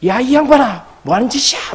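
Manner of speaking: high-pitched mock confrontation; acted angry scolding. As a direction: scold him like an indignant woman. Retold woman confronts a man, shaking him.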